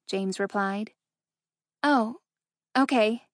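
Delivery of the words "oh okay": disappointed. A narrator's reading. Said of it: "couldn't hide the disappointment in her voice".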